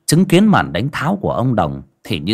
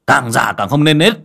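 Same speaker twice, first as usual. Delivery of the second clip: càng già càng không nên nết said loud and rising; angry louder scold; 4 semitones higher, 3 dB louder than usual. Acted. Master scolding aloud.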